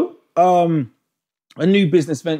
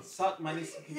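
put-on South Municipality in a West African accent; 17 dB quieter than usual. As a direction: say South the Ghanaian way. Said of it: "you don't need to put on an African accent to say South".

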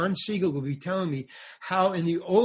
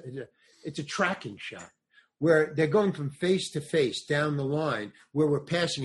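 ordinary talk

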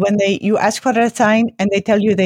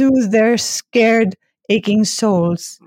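slow soothing radio voice; much slower than usual. Acted. Host soothing listeners.

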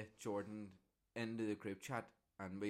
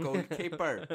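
raised voice, higher and emphatic; talking to the deaf; 7 semitones higher, 10 dB louder, slower than usual. Real, not acted. Explaining to listeners what Pat Jennings played, loud and deliberate. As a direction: project one word for someone hard of hearing. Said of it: "talking like they're deaf".

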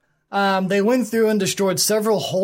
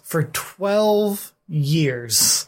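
slow, drawn-out repeat; dramatic emphasis; much slower than usual. Real, not acted. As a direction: stretch out each word for weight. Repeats war's length for emphasis.

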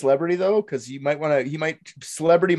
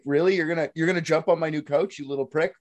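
mock indignant build, ending on a punched Pow; mock outrage; 2 semitones higher, faster than usual. Man fantasising about slapping an annoying kid, mock outrage.

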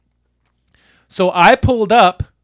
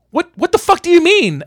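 very high, incredulous mock outrage; outraged disbelief; 12 semitones higher than usual. Driver to man stalling at the gate, mock outraged. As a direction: imitate a driver who can't believe it.

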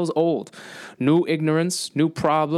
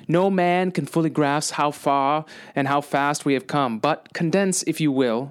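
lightly voiced presidential oratory; JFK speech recital. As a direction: read like a measured oration. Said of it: "I want to recite a chunk of J F K's speech".

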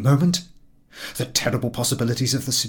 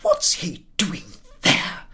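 thundering; 8 semitones higher, slower than usual. A narrator's reading. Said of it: "thundered Missus Y".

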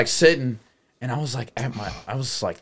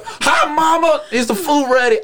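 lightly voiced child, high pitch; sweet little kid; 12 semitones higher than usual. Waking kid asks mom about food, high childlike sweetness. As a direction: greet mom like a hopeful kid.

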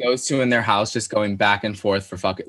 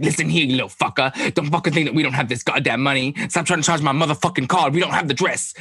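fast, mild angry rant at the clerk; a touch of a furious husband on the phone; mock cussing rant; 4 semitones higher, faster than usual. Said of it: "cussing at her".

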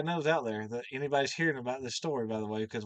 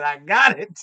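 mock triumphant shout; 2 semitones higher, 12 dB louder, slower than usual. Jacob pulls out the rug.

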